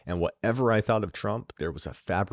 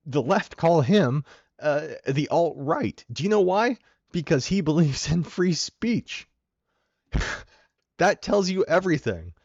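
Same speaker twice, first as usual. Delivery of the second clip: indignant; 7 semitones higher, 5 dB louder than usual. Real, not acted. Indignant defense of an accused man.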